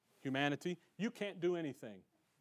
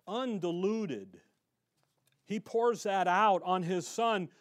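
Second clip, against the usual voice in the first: fired-up preaching; 2 semitones higher, 5 dB louder, slower than usual. Real, not acted. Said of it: "I get a little excited".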